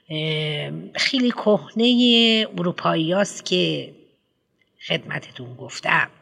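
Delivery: a pompous headmistress lecturing a parent; fussy headmistress. Acted. Headmistress answers Humbert.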